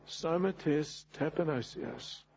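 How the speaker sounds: slow, hushed retelling of a groan; retold groan. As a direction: quote the Greek softly and slowly, as if lightly groaned. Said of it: "he groaned in Greek these words".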